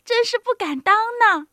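high, modest demurral; embarrassed, loudly fluttering politeness; bashful old woman. A narrator's reading. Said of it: "不好意思地说".

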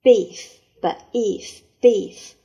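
loud drill. Shown as a demonstration. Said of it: "teacher drilling the word".

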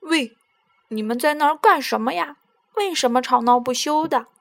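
loud, fast call across the riverbank. Acted. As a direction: call out to break up the quarrel. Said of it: "大声地喊道".

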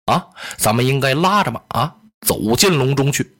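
a measured, polite sworn elder brother; Liu Bei in character. Acted.

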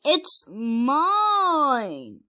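loud, long drawn-out shout. Acted. Rex fighting his twin over a toy, shouting. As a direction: stretch it into a loud claim. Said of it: "shouted Rex".

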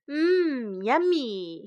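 savouring, drawn-out hum of pleasure; happy relish. Acted. Beggar finishes the pear, speaking happily. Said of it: "he said happily".

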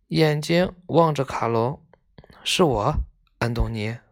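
measured, expressive storybook reading; story narration. A narrator's reading. Reading a tale of schoolboys visiting a sick friend, expressive narration. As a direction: read the tale aloud with feeling.

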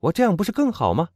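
spirited heroine exclaiming. A narrator's reading. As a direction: call it out proudly, pitched high. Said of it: "欧热尼喊道".

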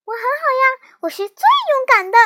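high, loud, proud boast; little hero showing off; proud reply. A narrator's reading. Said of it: "小南瓜骄傲地回答".

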